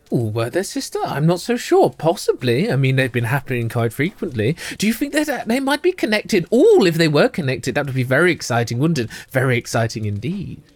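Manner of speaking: lightly voiced, hushed gossiping ladies; a hint of two scheming sisters telling a tale; conspiratorial twins. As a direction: lean in and share a secret. GM voicing the twins.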